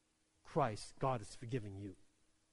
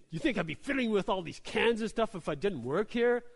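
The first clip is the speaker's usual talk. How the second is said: mild mock snap; 3 semitones higher, 5 dB louder than usual. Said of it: "she just snapped at me".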